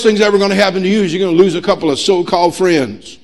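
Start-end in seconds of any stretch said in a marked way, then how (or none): 2.0-2.5 "so-called" set off with clear emphasis; stress on so-called. Real, not acted. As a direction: lean pointedly on "so-called". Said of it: "I emphasize the word so-called".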